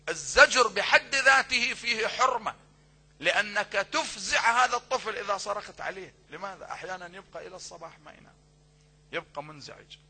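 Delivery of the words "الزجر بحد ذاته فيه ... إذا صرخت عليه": loud, impassioned sermon delivery; preaching at full force. Acted. Preacher urging parents from the pulpit, loud and fervent. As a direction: drive the duty home to the parents. Preacher warns against scolding.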